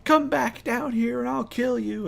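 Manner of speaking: high-pitched threatening holler; high, sustained mock yell; mock shouting. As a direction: yell a threat up at the sky, acted, not full volume. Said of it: "he's sitting there shouting at it".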